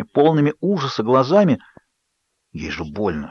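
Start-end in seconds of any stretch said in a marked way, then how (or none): 2.5-3.3 much softer, hushed "ей же больно"; whisper. A narrator's reading. Seth quietly urges Jacob, whispering. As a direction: murmur it close to his ear. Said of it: "шепнул Сет".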